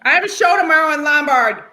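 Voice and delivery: talking through a mouthful of candy; words round a bite of Twizzlers; mouth full. Real, not acted. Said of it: "You said it so sexy with your mouth full".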